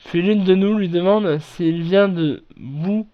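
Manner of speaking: normal talking voice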